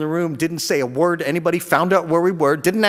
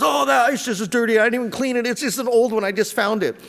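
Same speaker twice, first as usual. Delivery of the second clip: higher, quick and offhand; brushing it off; 8 semitones higher, faster than usual. Retold or imitated. Friend dismissing his gift, high offhand imitation. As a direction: wave it away like it's nothing. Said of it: "He goes".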